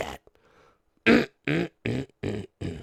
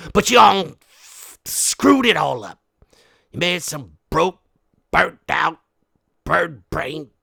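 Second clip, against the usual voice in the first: scolding; 3 semitones higher, 7 dB louder than usual. Acted. Scolding daughter.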